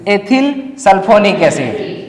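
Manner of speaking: Ethyl sulphonic acid said slowly, word by word; teacher dictating the name slowly; slow dictation. Shown as a demonstration. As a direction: spell it out slowly for students. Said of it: "तो इसका नाम क्या होता?".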